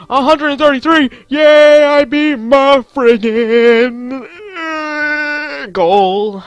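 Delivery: high, loud victory cry; triumphant shout. Real, not acted. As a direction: scream in joy at hitting the goal. Beats his score goal.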